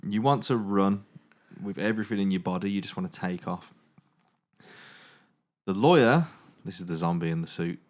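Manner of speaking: steady storytelling narration; game master narration. A narrator's reading. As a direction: narrate the scene to the players. Game master sets the scene.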